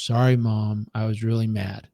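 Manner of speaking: lightly voiced little boy, low and subdued; imitating a child owning up to Mom; imitated sheepish apology. Son's apology voiced in story.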